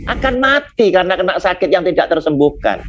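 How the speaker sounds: a mildly acted sobbing plea to God; tearful prayer. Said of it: "Hizkia berdoa menangis".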